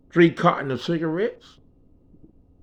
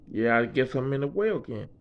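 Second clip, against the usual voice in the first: low, soft, deflated admission; resigned; 6 semitones lower, 7 dB quieter than usual. Retold or imitated. Scolded boss giving in to his worker, resigned. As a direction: act out a boss backing down quietly.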